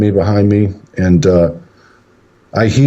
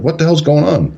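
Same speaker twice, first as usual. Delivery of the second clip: higher-pitched, alarmed mimicry; imitated freak-out; 7 semitones higher than usual. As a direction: demand an answer like a rattled son, lightly acted. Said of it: "he's freaking out".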